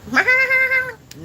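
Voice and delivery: high mock goat bleat. Streamer trying a requested goat impression, high bleat. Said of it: "goat impression".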